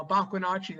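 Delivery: "Bakunachi" said in the speaker's own Indigenous language, plainly; said in native language. Shown as a demonstration. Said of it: "that's how we say it in our language".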